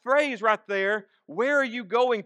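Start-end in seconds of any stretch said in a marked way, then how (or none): 1.3-2.2 raised, pressing question; a touch of worried urgency; mild anxiety. Acted. Disciple asking where his teacher is going, mildly anxious. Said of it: "is an expression of anxiety".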